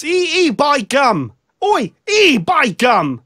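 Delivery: loud, high, drawn-out northern English cry; northern English accent. Shown as a demonstration. Showing an American how the singer should sound, broad northern English. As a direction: belt out a caricature of northern English. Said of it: "He's supposed to sound like this".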